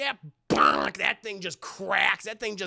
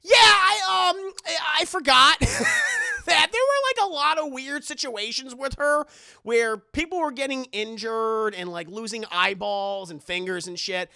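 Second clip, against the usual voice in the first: much higher and louder, nervous laughter; awkward laughing confession; 6 semitones higher, 6 dB louder than usual. Retold or imitated. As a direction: sheepishly admit the bad news. Nun awkwardly admits forgetting.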